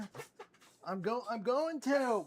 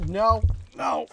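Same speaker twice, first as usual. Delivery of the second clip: firm loud no; 3 semitones higher, 9 dB louder than usual. Real, not acted. Scolding the begging dog.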